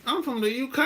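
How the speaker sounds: put-on playful British accent on "I'm from the U K"; mock British accent. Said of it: "I like the accent".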